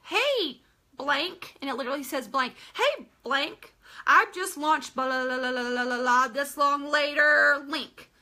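a hint of a bored form letter; copy paste message. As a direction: rattle off the blah blahs like a form letter. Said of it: "send them this cut and paste message".

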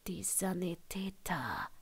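hushed, pleading whisper; a whispered plea to let the paramedics work; urgent imploring. A narrator's reading. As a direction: beg him under your breath. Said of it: "beschwor er sie".

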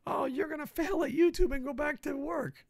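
hammed-up troll jeer; mocking troll. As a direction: mimic a snide commenter. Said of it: "I'm getting tired of fucking D Ms".

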